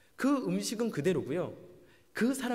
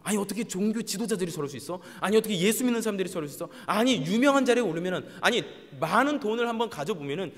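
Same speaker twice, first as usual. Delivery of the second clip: mock outrage, louder tirade; indignant scolding; 3 semitones higher, 5 dB louder than usual. People reading news about fallen religious leaders, acted reproach. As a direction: scold them like an appalled onlooker. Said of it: "라고 책망하고 그들을 욕하고 비난합니다".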